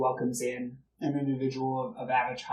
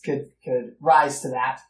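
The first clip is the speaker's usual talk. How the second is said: put-on louder old soldier voice, lightly held; proud patriotic old gentleman; old gentleman chatting with the freed slave, hearty; a hint of the blustering old officer; 4 dB louder than usual. Old gentleman lectures politics.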